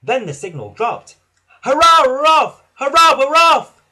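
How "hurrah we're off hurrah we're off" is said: loud, high jubilant shout; exuberant, puffed-up hurrah; happy cheer. A narrator's reading. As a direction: cheer it out joyfully. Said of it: "puffed Thomas happily".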